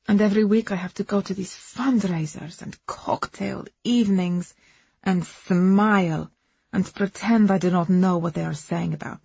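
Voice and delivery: put-on accented woman airing her hurt; foreign-accented Agnes, aggrieved. Second wife complaining about her husband's family, aggrieved accented voice.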